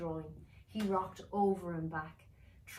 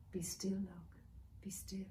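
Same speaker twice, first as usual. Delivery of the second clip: deep soothing voice; 7 dB quieter than usual. Acted. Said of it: "in a deep, soothing voice".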